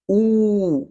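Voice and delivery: "ou" held long. Shown as a demonstration. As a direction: stretch the "ou" vowel. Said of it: "Ou va pwononse pi long". (pwononse "ou" pi long)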